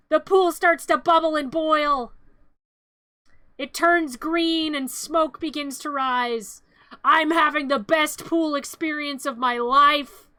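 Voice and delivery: slow, drawn-out storyteller voice; dramatic narration. Acted. Narrating the pool turning green, slow and ominous. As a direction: stretch it out for drama.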